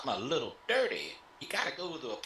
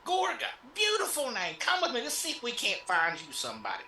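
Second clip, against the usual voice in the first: high flirty pimp host; 6 semitones higher, 4 dB louder than usual. Acted.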